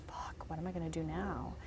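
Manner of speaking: whispered, at a loss; retold quiet despair. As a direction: mutter it softly to yourself, defeated. Retold despair after the rejection.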